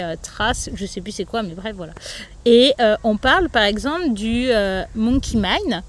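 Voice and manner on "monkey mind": monkey mind said with a light English accent, "majn". Shown as a demonstration. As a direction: say monkey mind the English way, a touch self-mocking. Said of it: "avec mon super accent anglais".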